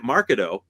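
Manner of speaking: "marcato" as MAR-kuh-toe, stress thrown on the first syllable; mispronounced marcato. Retold or imitated. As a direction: get "marcato" wrong with a loud MAR and weak middle. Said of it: "Again, no".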